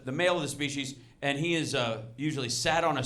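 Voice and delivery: hushed nature documentary narrator. Shown as a demonstration. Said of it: "use a little thing over here".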